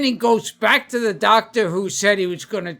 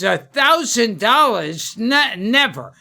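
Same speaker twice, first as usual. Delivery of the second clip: put-on lightly done Italian accent; indignant customer with a hint of Italian. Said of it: "was that your Italian accent".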